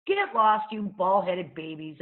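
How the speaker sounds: loud scornful brush-off; girl snapping at the bald boys; telling off. Acted. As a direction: send them packing.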